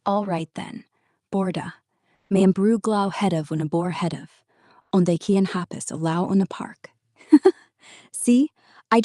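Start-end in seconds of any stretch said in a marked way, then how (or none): 1.3-6.9 clumsy stab at speaking Welsh; attempted Welsh. Shown as a demonstration. AI tries Welsh for the audience, shaky Welsh accent. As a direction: have a go in mock Welsh. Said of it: "Told you I'm shite at Welsh".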